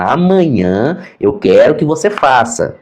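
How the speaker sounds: slow, drawn-out imitation of yelling; mock shouting. Teacher orders homework from deaf pupil, slow mock shout. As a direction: imitate over-clear shouting, held back.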